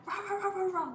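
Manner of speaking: high, loud mock dragon roar. Mocking a yelling parent, a loud high dragon roar. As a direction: rah it out like a raging dragon. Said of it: "like a dragon".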